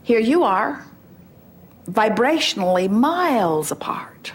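slow breathy whisper; hushed slow aside. Acted. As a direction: drop to a whisper, drawing it out.

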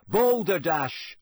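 slow, drawn-out password; slow emphatic password. A narrator's reading. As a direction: say it slowly and firmly. Password said slowly.

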